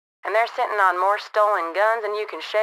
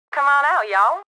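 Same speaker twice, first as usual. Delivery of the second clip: calling out; 7 semitones higher, 4 dB louder than usual. Acted. Calling the gang out.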